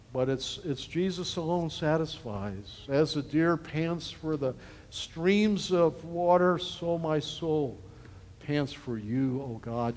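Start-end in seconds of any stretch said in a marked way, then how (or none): 2.9-9.9 slow, soft psalm reading; reading the psalm slowly to the congregation, softly; reciting scripture. Acted. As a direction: let the verse breathe gently.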